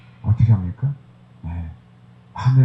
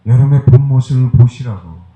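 loud preaching call; 7 dB louder than usual. Real, not acted. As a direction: press the point on the listeners. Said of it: "repeated call".

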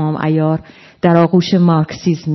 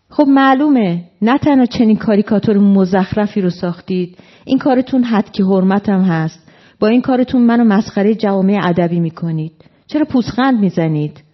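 a higher-pitched, offended protest; indignant protest; 4 semitones higher than usual. Acted. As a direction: complain as the insulted friend, pitch raised. Offended writer protests in acted quarrel.

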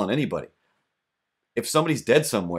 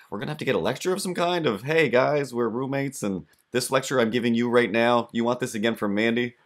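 mock lecture; 5 semitones higher than usual. Imitating roommate's lecture.

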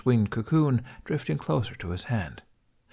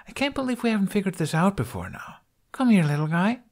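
put-on higher, eager young woman's voice; higher, thrilled female voice; Kamikaze, delighted; 11 semitones higher than usual. A narrator's reading. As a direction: coo at the dragon happily.

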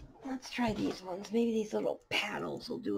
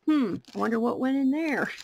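musing to herself; 6 dB louder than usual. Retold or imitated.

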